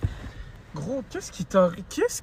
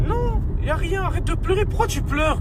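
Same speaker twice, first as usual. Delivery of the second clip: much higher, louder frantic yelling; panicked shouting; 11 semitones higher, 7 dB louder than usual. Acted. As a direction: shout in panic while driving. Driver shouting.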